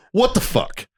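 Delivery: high-pitched, incredulous "what the hell" reaction; baffled exclamation. Retold or imitated. Retelling his failed app search to friends, baffled. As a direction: jump up high in disbelief.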